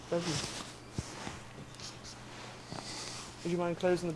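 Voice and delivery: soft British accent on a call; talking to his wife in a British accent. Real, not acted. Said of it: "do you usually talk to your wife in a British accent".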